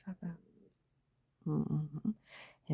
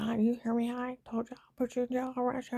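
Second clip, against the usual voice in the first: imitating an insistent threat, higher pitched; retold angry threat; 5 semitones higher than usual. Agent threatening her with jail and arrest, mock angry insistence. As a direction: raise the pitch as if hammering a threat home.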